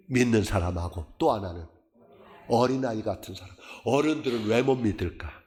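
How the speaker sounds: usual speaking voice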